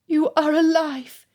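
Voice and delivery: high, slow and tearful joy; overjoyed relief. A narrator's reading. Elizabeth finds him alive.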